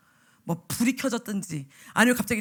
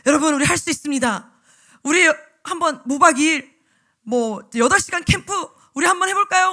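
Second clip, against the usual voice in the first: louder upbeat rally call; rallying pep talk; 3 semitones higher, 8 dB louder than usual. Retold or imitated. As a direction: pump the teachers up. Rallying teachers on zoom. (줌 회의에서 교사들을 독려하는 신난 외침)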